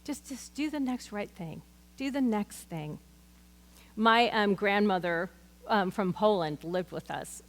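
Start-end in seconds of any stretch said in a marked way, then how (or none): 0.0-3.0 softer, quieter, a touch higher; a hint of God speaking kindly; gentle voice of the Lord. Preacher voicing the Lord's gentle answer, softly. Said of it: "the Lord's just saying to me".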